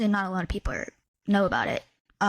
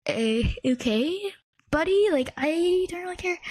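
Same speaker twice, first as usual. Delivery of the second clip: dismissive; 7 semitones higher than usual. Retold or imitated. She retells brushing off a fan who wanted a date, dismissive and higher. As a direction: wave him away with a bored "okay, buddy".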